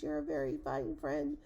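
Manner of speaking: very high, little voice; tiny faint voice. A narrator's reading. Speck-dweller greets the elephant, in a tiny high voice. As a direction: speak as someone minute. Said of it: "came the voice".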